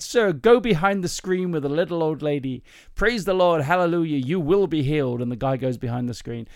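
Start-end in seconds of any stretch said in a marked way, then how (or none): 0.0-5.2 lightly hammed American minister; a hint of American revival preacher; slight American accent. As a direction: send him off with American preacher fervour. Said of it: "that's a slight American accent".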